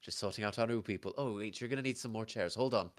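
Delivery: busy barmaid with an Irish lilt; Irish-accented hostess, juggling customers. Acted. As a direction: answer across the bar in an Irish accent. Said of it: "I don't do Irish".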